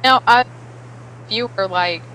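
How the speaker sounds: choppy bad connection; breaking up space radio. Real, not acted. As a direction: voice cutting in and out. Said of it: "you're breaking up a little bit".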